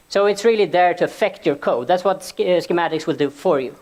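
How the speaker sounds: slightly winded from the stairs; out of breath, catching air between phrases. Real, not acted. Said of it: "Sorry, I'm a bit short of breath".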